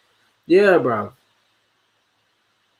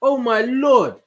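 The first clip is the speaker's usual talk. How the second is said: high, drawn-out exasperation; real exasperated cry, pitched up; 7 semitones higher, slower than usual. Real, not acted. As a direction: throw it up in disbelief. Exasperated reaction to a comment.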